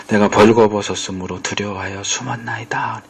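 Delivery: hushed, fearful whisper; whispered confession. Retold or imitated. (숨죽여 속삭이는 고백)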